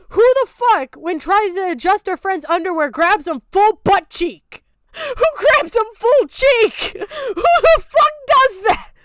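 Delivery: high, loud disbelieving yell that keeps climbing; outraged yelling. Real, not acted. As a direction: shout it out in real outrage. Outraged at the comic's butt grab.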